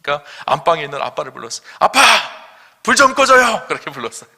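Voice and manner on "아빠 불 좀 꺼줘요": high, loud call to a father in the next room; child calling out. Retold or imitated. Child in bed shouting for dad to turn off the light, loud high call. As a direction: shout it up to Dad across the house.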